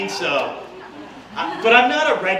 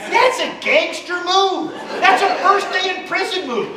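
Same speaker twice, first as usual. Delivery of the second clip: ranting to wife; 3 semitones higher than usual. Retold or imitated. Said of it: "I said".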